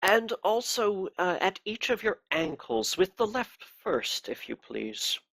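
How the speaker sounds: a cold, pious interrogator; cold pious accusing. Acted. Inquisitor orders ankles tied.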